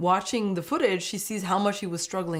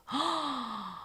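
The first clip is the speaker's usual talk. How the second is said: long, soft sympathetic gasp; drawn-out gasp; 4 semitones higher, 8 dB quieter than usual. Real, not acted. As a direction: draw the breath in slowly and audibly. Reacts to the poor child.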